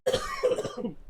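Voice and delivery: high, loud, slow outraged yelling; mock furious customer. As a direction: yell it like a furious homeowner who paid too much. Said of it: "He's like".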